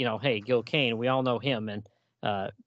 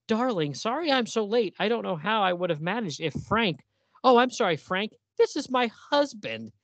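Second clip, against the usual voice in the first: sweet woman voice; 5 semitones higher than usual. Acted. Voicing Pythia.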